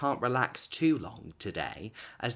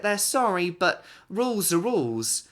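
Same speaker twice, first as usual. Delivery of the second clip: higher, louder mock-official insistence; firm refusal; 9 semitones higher, 6 dB louder than usual. A narrator's reading. Councillors telling Missus Rainbow the decision stands, firmly. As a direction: rules are rules, no arguing.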